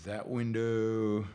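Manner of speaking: raspy, worn-out voice; hoarse voice. Real, not acted. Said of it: "I'm losing my voice a little bit".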